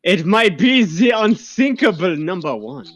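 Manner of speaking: put-on light German accent, hammy. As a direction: speak it like a movie villain German. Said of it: "doing a German accent?".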